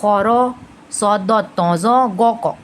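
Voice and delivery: "खौरो" and "गौ, कौ" with rounded "o"; paired heavy syllables, "खौरो" first; heavy-letter mnemonic. Shown as a demonstration. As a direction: chant out "सौद, दौद, तौ, जौ" full-mouthed. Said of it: "तो ये heavy letters हो गए".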